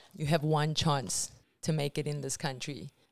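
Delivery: ordinary talk, nothing marked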